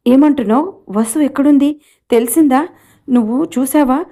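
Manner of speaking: he jumps up, asking all at once; startled questions. Acted. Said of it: "ఉలిక్కిపడ్డాడు".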